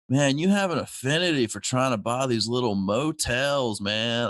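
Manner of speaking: lightly voiced surfer dude; a hint of the chill surfer. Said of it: "he sounds like a surfer".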